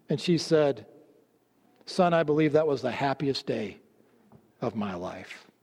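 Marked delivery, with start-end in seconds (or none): 1.9-5.5 softly voiced, a touch of tenderness; tender recollection. Mother telling her son of her happiest day, tenderly. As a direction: let it sink lower and much softer by the end.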